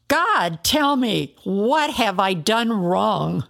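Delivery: crying up to the sky for an answer; desperate outcry. Acted. Job cries upward to God.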